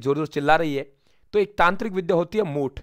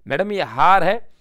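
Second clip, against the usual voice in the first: slow drill line; 2 semitones higher, 5 dB louder, slower than usual. Shown as a demonstration. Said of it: "mnemonic drill, slower take".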